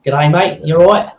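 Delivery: matey Aussie accent; Australian accent. Shown as a demonstration. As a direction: put on an Australian greeting accent. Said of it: "it can go right into an Australian accent".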